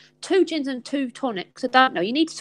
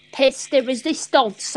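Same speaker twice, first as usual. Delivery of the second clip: mock French; 3 dB louder than usual. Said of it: "as they say".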